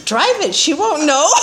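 mischievous laughing aside; tempting yourself through laughter; laughing temptation. Retold or imitated. Tempting self to drive.

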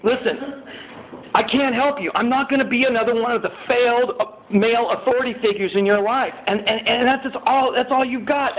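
a hint of an angry sponsor; retold sponsor tirade. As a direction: lay into him, fast and high. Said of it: "he's like".

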